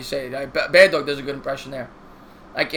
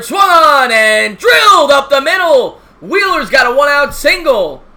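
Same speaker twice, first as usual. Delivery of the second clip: higher, louder shout on the big hit; excited announcer call; 8 semitones higher, 10 dB louder, slower than usual. Acted. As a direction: call the hit like the crowd just jumped up. Big hit in called game.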